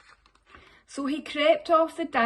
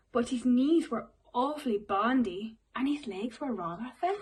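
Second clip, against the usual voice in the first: gentle storybook reading voice; reading to children; 2 semitones lower than usual. Acted. Teacher reading a picture book to the class, storybook voice. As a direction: read it like bedtime story time.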